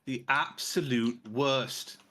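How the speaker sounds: poor, emphatic stab at Scottish; attempted Scottish accent. Shown as a demonstration. Trying Scottish on request to insult someone, shaky Scottish accent. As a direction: try a Scottish accent and not quite get it. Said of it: "I can't do a Scottish accent".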